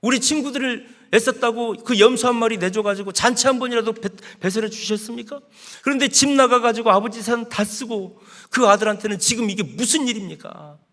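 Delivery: 살짝 연기한 화난 항의; 억울함을 가볍게 실어 따지듯; 대드는 큰아들. Acted. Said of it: "화가 나가지고 아버지한테 막 손가락질하면서 이렇게 대드는". (아버지에게 대드는 큰아들, 살짝 연기한 화난 항의)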